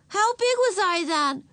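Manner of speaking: put-on high, eager little-girl question; fascinated. A narrator's reading. Ramona asking about herself as a toddler, fascinated. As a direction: ask high and keen, like a child. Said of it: "fascinated with this bit of information".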